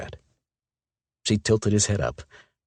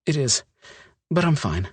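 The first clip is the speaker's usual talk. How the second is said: put-on young woman voice; 12 semitones higher, 3 dB louder than usual. Olivia voiced by narrator.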